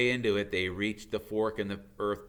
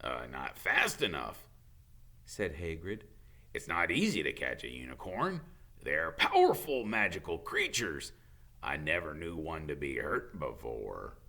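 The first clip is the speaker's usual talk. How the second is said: a hint of a gruff, worried gamekeeper; low, worried gamekeeper explaining; lightly voiced Hagrid; 5 semitones lower than usual. Hagrid tells Harry about unicorns, lightly voiced and worried.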